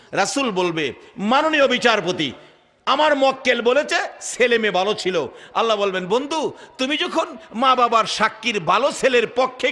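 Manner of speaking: ringing sing-song sermon delivery; impassioned preaching. Real, not acted. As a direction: preach it in waves, building to a loud, high close.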